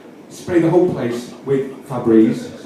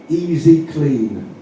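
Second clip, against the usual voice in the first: drawn out, like reading a sign; slow sign reading; much slower than usual. Shown as a demonstration. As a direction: read it out slowly. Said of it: "what it's done with a Z".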